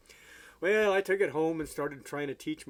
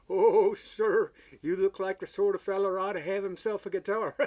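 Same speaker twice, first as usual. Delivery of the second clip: much higher, fawning pawn shop salesman voice; eager salesman; 6 semitones higher, 6 dB louder than usual. Retold or imitated. Pawn shop salesman pitching a guitar to a customer, high fawning voice. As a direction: pitch it up high like an overeager clerk making a sale. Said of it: "this funny little guy".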